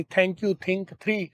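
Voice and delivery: "thank you, think, three" with a soft breathy th, tongue between the teeth; "three" quietly, with the air pushed through the teeth; correct voiceless TH. Shown as a demonstration. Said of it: "एक थे की और एक दाल की".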